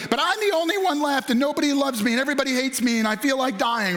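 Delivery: hammed-up whine of a self-pitying prophet; whining. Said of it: "He's whining".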